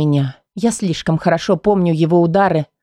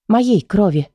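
usual speaking voice

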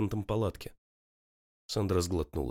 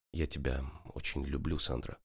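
tender; 6 semitones lower, 5 dB quieter than usual. A narrator's reading. Tender confession after reconciliation.

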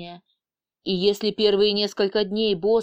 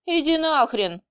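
a curt, mild snap; snapping back; 6 semitones higher than usual. A narrator's reading. Heroine to her teasing boss, snapping back. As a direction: bite back at him, lightly. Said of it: "огрызнулась я".

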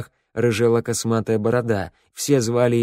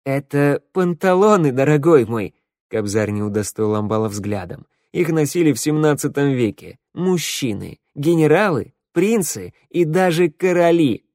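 haughty lecturing; 4 semitones higher, 3 dB louder than usual. Acted. Kobzar lecturing on fashion.

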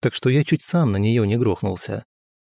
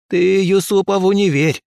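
higher, louder crone warning; warning old woman; 9 semitones higher, 5 dB louder than usual. Acted. Old healer warns the prince about Yusupov. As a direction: warn him like a stern granny. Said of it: "погрозила бабка пальцем".

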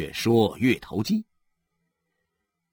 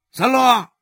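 higher, louder stern yell; angry yell; 12 semitones higher, 5 dB louder than usual. Acted. Father yelling down from the roof at his son, higher and louder. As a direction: roar down at the boy. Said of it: "对着三乐吼了".

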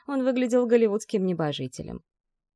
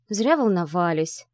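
displeased grumble. Acted. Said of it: "Недовольно проворчала Ви".

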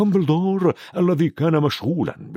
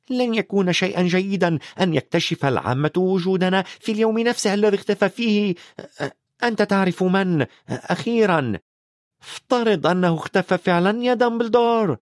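higher, anxious witch pressing; anxious McGonagall; 7 semitones higher than usual. Acted. McGonagall presses Dumbledore about the vanished wizard, anxious. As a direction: she hopes he will tell her.

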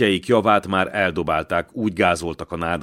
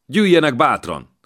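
raised, higher call of encouragement; biztató hívás; 8 semitones higher, 7 dB louder than usual. A narrator's reading. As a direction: call them onward, urging them to come. Fiú biztatva hívja a katonákat. (hangos, bátorító odakiáltás)

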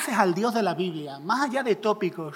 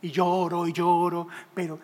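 mock crying. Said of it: "me encontráis llorando en una esquina".

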